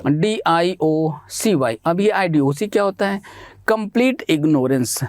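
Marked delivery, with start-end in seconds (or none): 0.0-1.8 slow spelling out. Shown as a demonstration. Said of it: "आईडीओसी का correct spelling क्या होता है?".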